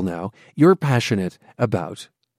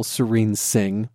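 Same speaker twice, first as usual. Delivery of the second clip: savoring the name; slower than usual. Real, not acted. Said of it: "just think your name is wonderful".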